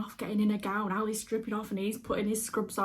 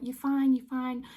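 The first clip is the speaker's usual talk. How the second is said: higher-pitched soothing "there, there" voice; imitated calming reassurance; 4 semitones higher, 4 dB louder, slower than usual. Theatre lady calming a shaking patient, imitated reassurance. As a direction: retell a helper's quick reassurance in raised pitch. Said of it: "amazing at calming me down".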